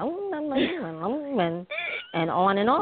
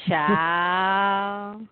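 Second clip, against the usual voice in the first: put-on sassy drawn-out child; 3 dB louder than usual. Shown as a demonstration. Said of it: "mine's gonna be".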